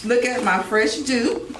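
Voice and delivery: slow, drawn-out boast about the hairdo; slow proud line. Shown as a demonstration. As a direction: stretch it out, proud of the new hair. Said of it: "so, um".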